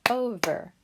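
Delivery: "Over" said high, loud, syllables apart; sounded out. Shown as a demonstration. Teacher sounding out "Over" for young readers. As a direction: stretch "Over" so the syllables show. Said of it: "We can hear it".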